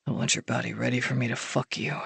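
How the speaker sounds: soft and low, intimate; low murmur. A narrator's reading. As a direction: murmur close to her.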